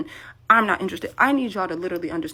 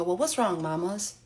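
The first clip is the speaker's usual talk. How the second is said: cooing at the washer; slower than usual. Retold or imitated. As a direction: fondly coo "mamas" like to a pet. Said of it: "I beg your finest pardon?".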